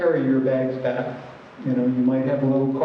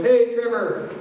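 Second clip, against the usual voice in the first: higher-pitched mock street hail; calling out greeting; 7 semitones higher than usual. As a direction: imitate calling to a friend on the corner. Greeting someone on a street corner.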